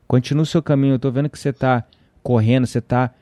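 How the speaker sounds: low, steady, peaceable; telling the angry driver to go in peace, calm and low; calm reply. Retold or imitated. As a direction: settle him down gently. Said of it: "Eu falei".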